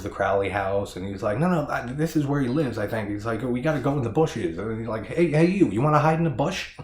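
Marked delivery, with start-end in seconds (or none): 1.4-3.1 imitating Harry Shen. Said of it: "the way he delivers that". 3.4-4.6 imitating Harry Shen. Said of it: "the way he delivers that". 5.1-6.8 high, loud, goofy sneaky invitation; hammed-up whispery-style come-on, tossed off fast; imitating Harry Shen. Reviewer mimicking Harry Shen's funny bush line, high and loud. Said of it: "it's so funny the way he delivers that".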